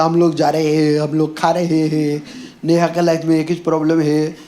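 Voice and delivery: put-on Marathi accent with open, unnasal "हे" for "हैं"; Marathi-accented Hindi. Teasing a Mumbai audience, imitated Marathi accent. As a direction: mimic Marathi speakers, stretching "रहे हैं" without nasalisation. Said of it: "cute लगता है आप लोग बोलने का तरीका".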